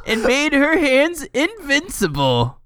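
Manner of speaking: high-pitched, choked with laughter; laughing while reading. Real, not acted. Reading absurd fan fiction aloud, high and giggly. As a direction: push the sentence out through giggles.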